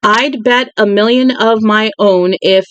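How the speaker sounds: slowed-down second reading, word by word. Shown as a demonstration. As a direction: take it again slowly and carefully. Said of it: "rereads the line after stumbling".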